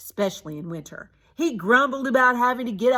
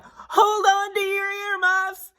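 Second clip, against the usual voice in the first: slow, higher excited call; 12 semitones higher, 4 dB louder, slower than usual. A narrator's reading. Annie calls to the kids as she hits the hill, calling out. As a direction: call it out to the whole bus. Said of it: "she called out".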